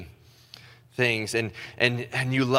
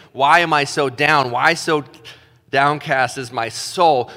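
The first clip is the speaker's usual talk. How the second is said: raised, pleading cry; crying out to God; 5 dB louder than usual. Acted. Psalmist crying out to God, raised pleading voice. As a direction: call out to God in anguish.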